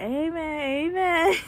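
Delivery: imitating passengers, cracking up; laughing amen. Retelling the bus crowd's amen, laughing through it.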